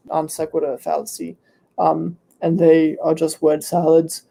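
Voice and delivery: hoarse and tired throat. Real, not acted. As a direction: voice giving out, hoarse. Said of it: "I'm losing my voice".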